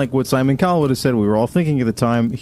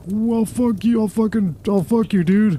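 high-pitched imitation of a furious man; mock angry retort; 8 semitones higher than usual. Mimicking the singer answering a heckler, high mock anger. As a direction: sputter high, without real force.

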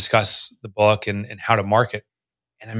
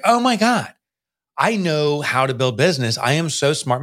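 smug excitement; 4 semitones higher than usual. Retold or imitated. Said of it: "I was like".

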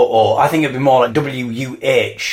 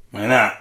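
pig inhale; 4 semitones lower than usual. Shown as a demonstration. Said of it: "you inhale".

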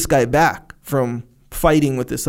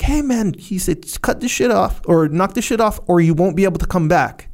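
raised warning to a fighter; loud yell; 4 semitones higher than usual. Retold or imitated. Tony warning the big guy to stop fighting, mock yell. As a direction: yell over the argument to stop him. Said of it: "Tony yells, like, loud".

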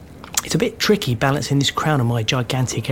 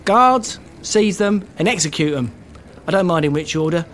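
king-like command; 2 semitones higher than usual. Acted. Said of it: "That sounded pretty king-like".

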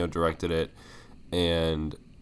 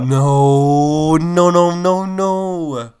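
louder, higher string of no's cutting her off; loud protest; 8 semitones higher, 8 dB louder, much slower than usual. Real, not acted. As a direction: shut the idea down with a burst of no's. Protesting friend's movie opinion.

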